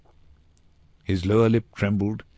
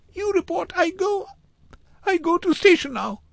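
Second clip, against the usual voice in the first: put-on very high, frightened child's voice; squeaky-high, urgent little-boy refusal; panicked boy in broken English; 3 dB louder than usual. A narrator's reading. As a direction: protest in short, desperate bursts. Boy insists on fleeing.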